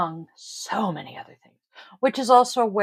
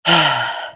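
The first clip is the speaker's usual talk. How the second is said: tired sigh; 5 semitones lower, 6 dB louder than usual. Real, not acted. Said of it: "I am so not awake today".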